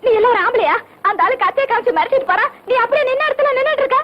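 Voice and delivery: acted indignant scolding, fairly loud. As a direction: tell off a cowardly husband. Wife scolds husband after robbery.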